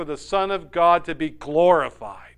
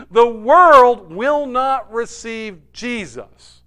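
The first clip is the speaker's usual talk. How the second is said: much higher and louder, slowly; slow emphatic proclamation; 7 semitones higher, 10 dB louder, much slower than usual. Acted. Preacher driving home to congregation, slow loud emphasis. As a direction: declare it word by word.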